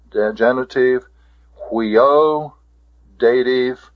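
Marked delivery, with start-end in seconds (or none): 1.7-2.5 "huio" with a held final O; pronunciation demo. Shown as a demonstration. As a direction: model "huio", lifting the ending. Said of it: "The pronunciation of this".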